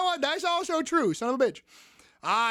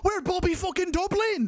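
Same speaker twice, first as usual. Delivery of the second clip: hyped; 7 semitones higher than usual. Real, not acted. Hyped team name chant.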